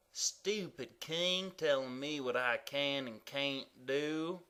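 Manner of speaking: a sulky little mutter under the breath; grumbling comma. Acted. Comma complains about the king, softly grumbling. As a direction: grouse about being bossed around.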